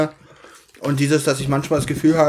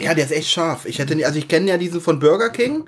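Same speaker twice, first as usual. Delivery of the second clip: straining through spicy heat; tense, mouth on fire from chili; mouth burning from spicy food. Real, not acted. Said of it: "Weil du ganz verkrampft da sitzt".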